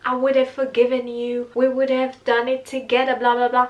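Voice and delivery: a lightly mocking imitation of her grand promises; mocking big talk. To viewers, mildly mocking Eda's big talk about doing it together. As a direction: parrot her lofty words back with a slight sneer. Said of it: "she's always talking so big".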